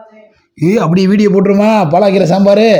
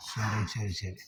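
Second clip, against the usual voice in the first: barely voiced, low murmured comfort; soothing; 9 semitones lower, 23 dB quieter, much slower than usual. Real, not acted. Parent hushes a crying child.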